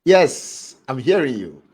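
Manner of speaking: fading out over a bad line; breaking up on the connection; voice going in and out. Real, not acted. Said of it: "your voice is going in and out".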